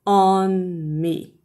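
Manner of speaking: ON ME with both words held long; drawn-out, careful ON ME; slow teaching demo. Shown as a demonstration. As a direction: model ON ME slowly for a learner. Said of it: "Eu vou falar devagar agora".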